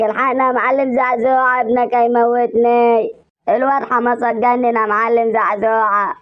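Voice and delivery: high, frightened calling out; panicked cry for help. Acted. Sambo begging the boss for help from his possessed friend, scared high cry. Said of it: "ده انت صوتك كان هيصحي المعلم زعزوعه من نومه".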